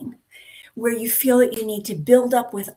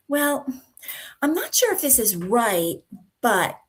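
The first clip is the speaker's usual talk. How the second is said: apologetic hedging; 2 semitones higher than usual. Shown as a demonstration. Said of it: "apologizing too often".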